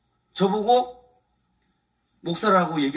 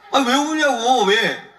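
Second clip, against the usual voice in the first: a sharp retold "stop crying", raised and louder; mock scolding; 4 semitones higher, 4 dB louder, slower than usual. Pastor retelling how he told the crying man off, mildly sharp. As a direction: scold the crying man briefly, half in jest. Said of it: "그랬어".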